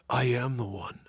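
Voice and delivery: lightly imitated movie hero; Keanu Reeves. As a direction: declare it like the film's chosen hero. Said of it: "He's doing an I'm the one".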